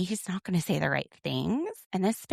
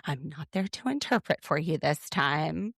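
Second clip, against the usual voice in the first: mock coaching, softer and measured; imitating Robin; 5 dB quieter than usual. Robin coaching Cody before his apology, softly mock-instructing. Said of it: "Robin's like".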